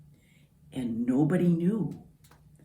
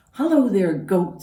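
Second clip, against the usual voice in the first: high, louder duck greeting; cheery Duck; 3 semitones higher, 5 dB louder than usual. Acted. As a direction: sing out hello as Duck. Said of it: "said Duck".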